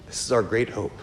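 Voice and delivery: a near-whispered echo of the first line; hushed echo. Real, not acted. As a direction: repeat it quietly to let it sink in. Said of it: "And this is our great hope".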